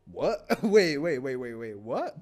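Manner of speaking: mildly baffled, halting double take; retold confusion. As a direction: re-enact a puzzled double take, questioning rise at the end. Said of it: "I'm just confused".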